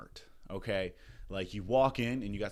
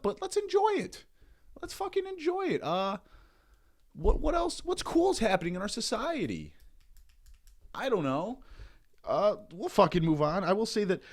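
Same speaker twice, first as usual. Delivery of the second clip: much higher squeaky mock-cheerful voice; falsetto; 9 semitones higher than usual. Sudden falsetto voice.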